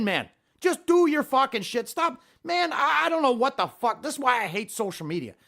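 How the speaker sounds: real worked-up scolding. Real, not acted. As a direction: go off on the liar. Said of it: "getting so worked up".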